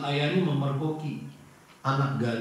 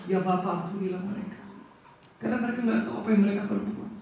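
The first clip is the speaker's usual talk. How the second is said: pleading prayer; 5 semitones higher, 3 dB quieter, much faster than usual. Acted. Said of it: "Dia berkata kepada Bapa".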